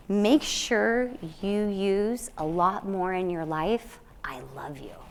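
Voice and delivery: slow hushed whisper of a dying man; whispered advice. Retold or imitated. Retelling a dying patient's advice in a slow whisper. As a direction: breathe it out slowly, like a frail man passing on wisdom.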